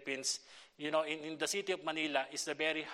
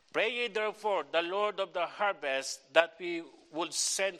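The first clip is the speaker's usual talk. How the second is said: raised, solemn Bible reading voice; formal reading of the Bible passage; scripture reading. Acted. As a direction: read the verse out to the church. Reads scripture aloud.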